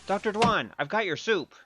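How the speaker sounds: panting after running; out of breath. Acted. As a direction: arrive breathless from the chase. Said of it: "you're all out of breath".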